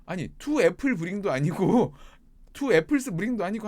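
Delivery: loud, high mock exasperation; hammed-up scolding in mixed Korean and English; imitated angry rant. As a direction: act out a fuming boss mangling English. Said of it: "화내면서 하면".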